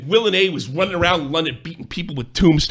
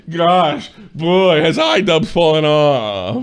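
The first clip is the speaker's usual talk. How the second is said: mock British voice; 3 dB louder, slower than usual. Mocking the target's voice.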